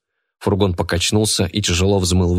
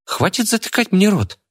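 put-on offended girl, pitched much higher; 13 semitones higher than usual. A narrator's reading. Girl offended at being silenced, high and hurt. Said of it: "обиделась Айгуль".

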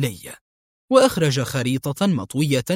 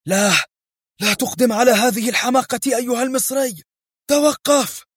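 screaming; 9 semitones higher than usual. Acted. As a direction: beg him to stop in terror. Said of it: "فصرخ وهو يتشبث بمقعده".

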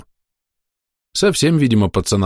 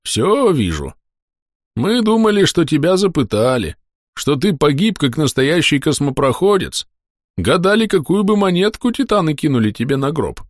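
high, wry soldier voice; corporal's voice; 8 semitones higher than usual. Acted. Corporal tells the narrator how they guessed his death, high and wry. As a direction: needle him with dark humour.

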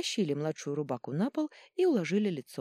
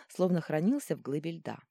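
ordinary delivery

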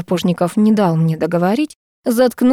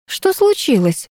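frowning; 7 semitones higher than usual. A narrator's reading. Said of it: "нахмурилась я".

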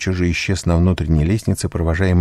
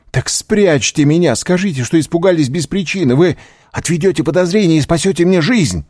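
высокая отчаянная мольба; умоляй спасти тебе жизнь; молящий голос; 11 semitones higher, 4 dB louder than usual. A narrator's reading. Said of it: "внимали этому молящему голосу". (молящим голосом)

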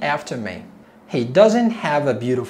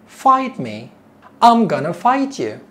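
challenging; 4 semitones higher, 4 dB louder than usual. Acted. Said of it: "The girl is saying".

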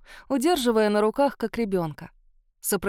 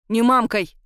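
loud angry snap; boiling over; 7 dB louder than usual. Acted. Mother snaps at her cheeky daughter, loud and angry. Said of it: "вскипела мадам Рошаль".

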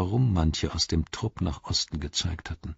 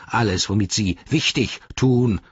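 slightly raised, indignant orc voice; offended orc echo; Grishnach; 2 semitones higher than usual. Acted. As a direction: fling the rival's words back. Grishnach quotes Ugluk back indignantly.

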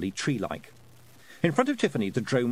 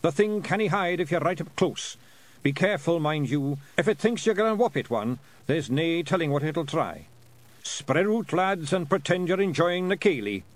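a tiny clansman hissing battle orders; Scots pixie warrior; 6 semitones higher than usual. Acted. Feegle chief warning his lads, higher Scots voice.

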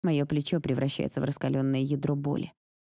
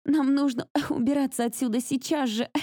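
urgent shout; 10 semitones higher than usual. A narrator's reading. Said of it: "кашляя от пыли, кричу я".

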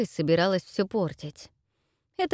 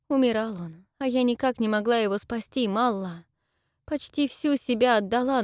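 put-on higher, pleading girl's voice; tearful young woman; 4 semitones higher than usual. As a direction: confess through held-back tears. Dayra tells of husband's death. (голос расстроенной девушки)

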